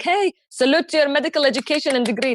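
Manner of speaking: hammed-up sarcastic praise. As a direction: pour sarcasm on their degrees. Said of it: "this is the sarcastic phase".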